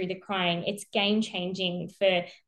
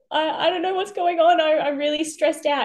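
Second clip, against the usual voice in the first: higher, louder flustered mum; stressed mum; 8 semitones higher, 5 dB louder than usual. Retold or imitated. Mum pressing the call bell, flustered and stressed. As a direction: stumble over the words in a fluster.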